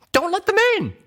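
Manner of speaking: high, loud panicked plea; desperate shout. Acted. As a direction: shout to stop him. Pleading about zombie door.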